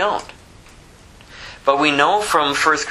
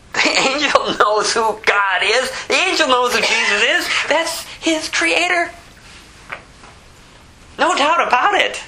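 fervent preaching; 12 semitones higher than usual. Acted. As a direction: preach it with rising fire. Preaching at full force.

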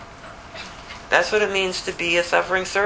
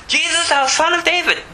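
unrelenting cry; 10 semitones higher than usual. Acted. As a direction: keep crying out, won't stop. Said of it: "He was unrelenting".

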